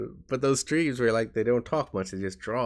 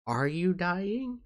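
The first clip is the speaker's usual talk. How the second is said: mock worried squeak; 9 semitones higher, much slower than usual. Mock viewer reaction.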